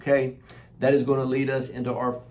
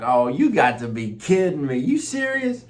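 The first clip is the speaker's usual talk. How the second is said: high, loud joyful exclamation; shouting praise in amazement; retold excited disbelief; 8 semitones higher, 6 dB louder than usual. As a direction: replay the thrill of the answered prayer. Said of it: "I was like".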